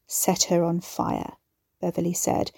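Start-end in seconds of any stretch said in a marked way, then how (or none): 0.1-1.4 firm, final command; no argument. Acted. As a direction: brook no argument. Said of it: "in tones that brooked no argument".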